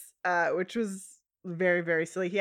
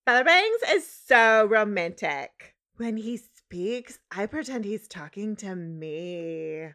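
put-on valley girl; 4 dB louder, slower than usual. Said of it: "I've done a Valley Girl voice".

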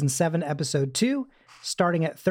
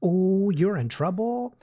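teasing warning; 3 semitones higher, slower than usual. Retold or imitated. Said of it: "it's like".

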